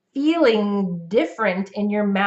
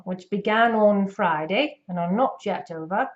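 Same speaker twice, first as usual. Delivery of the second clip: put-on British accent. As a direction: parrot a British newsreader. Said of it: "So let me parrot him".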